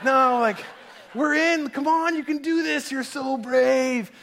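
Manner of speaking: high, insistent retold pep talk; urgent encouragement. Dad urging his nervous daughter onward, eager encouragement. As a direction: cheer a wavering child on, pitched right up.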